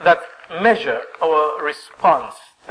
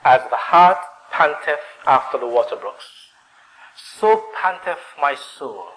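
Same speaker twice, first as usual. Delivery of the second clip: scripture reading. Acted. Preacher reads a thirsting psalm to the congregation, measured.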